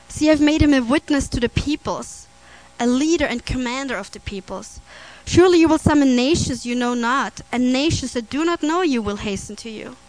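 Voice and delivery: emphatic preacher reading a verse, strong openings; scripture reading. Acted. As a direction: proclaim the verse to the congregation. Reads Bible verse aloud.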